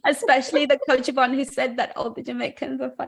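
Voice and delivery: high, loud giggly teasing; laughing, teasing. Real, not acted. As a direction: tease the trolls through laughter. Joking threat about Coach Yvonne.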